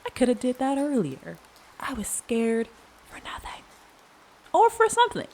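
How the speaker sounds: high relieved voice. Retold or imitated. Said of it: "you're like".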